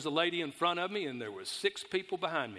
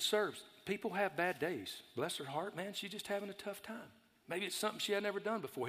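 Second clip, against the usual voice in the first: softer, gentle pleading; calming the man; 3 semitones higher, 6 dB quieter than usual. Retold or imitated. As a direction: soothe the angry customer. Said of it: "I said".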